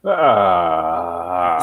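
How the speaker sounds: talking around a cigar; cigar in mouth. Real, not acted. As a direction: grunt with a cigar clamped in teeth. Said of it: "I had a cigar in my mouth".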